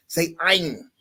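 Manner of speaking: "Ain" as the teacher says it; Arabic pronunciation model. Retold or imitated. Arabic teacher to learner, plainly modelled "Ain". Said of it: "the person said to me".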